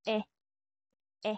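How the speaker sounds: "E" as in "bed", mouth opened wide; open French è. Shown as a demonstration. Teacher contrasting it with accent aigu, open è. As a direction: say a short, open "E". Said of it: "mas open or mas wide".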